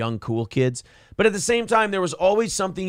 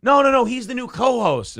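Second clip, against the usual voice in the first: imitating Anthony; 9 semitones higher, 3 dB louder than usual. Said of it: "Anthony goes".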